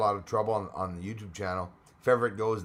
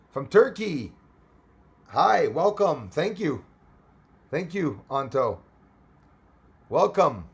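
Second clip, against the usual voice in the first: raised, higher-pitched welcome; calling out louder; 5 semitones higher, 6 dB louder, slower than usual. Pretend. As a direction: greet someone far away, voice lifted. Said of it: "have to scream louder".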